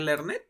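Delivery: "learned" as learn-et; wrong extra syllable. Shown as a demonstration. Teacher asking if this works, "learned" as two syllables. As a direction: give "learned" a separate ED syllable. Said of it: "¿Será posible pronunciar learned?".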